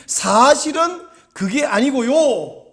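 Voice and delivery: drawn-out, placating denial; gentle explanation. Acted. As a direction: explain it kindly, stretching the words. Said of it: "라고 부드럽게".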